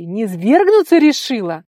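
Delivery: loud, furious reproach; angry yell. Acted. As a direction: shout the accusation at her. Tigir keeps yelling at her. (гневный крик)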